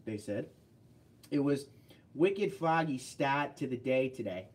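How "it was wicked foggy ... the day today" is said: put-on Maine accent. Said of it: "I was in Maine, they said".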